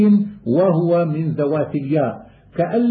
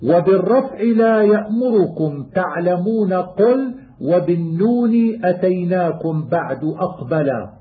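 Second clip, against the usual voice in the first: poem recitation. Acted. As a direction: recite the rhymed line like a student of qira'at. Chanted verse of the poem.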